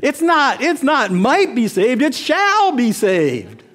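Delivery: mock black Southern lady correcting the preacher, high and emphatic; black Southern accent. Elderly black Southern woman correcting the verse, in a Southern accent. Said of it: "so she had this accent".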